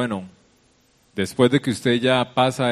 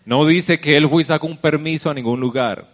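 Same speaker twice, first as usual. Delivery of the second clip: higher-pitched, emphatic pulpit delivery; raised sermon voice; preaching; 5 semitones higher, 5 dB louder than usual. Real, not acted. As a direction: preach the point out to the congregation. Preacher drives point to congregation.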